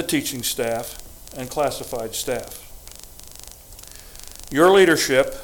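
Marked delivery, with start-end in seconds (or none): 4.5-5.3 "leadership" stressed, a little louder. Real, not acted. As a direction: lean firmly on "leadership". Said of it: "I stress the word leadership".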